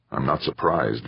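grumbling. Acted. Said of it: "Victor grumbled".

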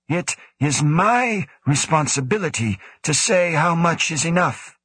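lightly voiced cool commanding official; stern director. A narrator's reading. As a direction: speak as the stern station director. Woe asserts authority.

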